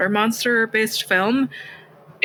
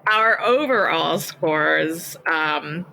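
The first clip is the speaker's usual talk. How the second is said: put-on Australian accent. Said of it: "Do it in the Australian accent".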